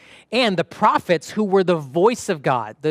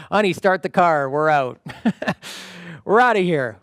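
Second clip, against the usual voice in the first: laughing exit. Retold or imitated. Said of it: "To which they would have said".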